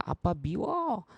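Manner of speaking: lightly voiced child pouting at dad; hurt child. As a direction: voice a hurt little kid, drawn out. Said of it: "아이가".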